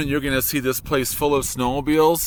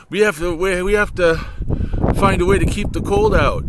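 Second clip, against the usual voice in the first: wise man of Chelm; 4 semitones higher, 3 dB louder than usual. Retold or imitated. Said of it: "speaking Yiddish".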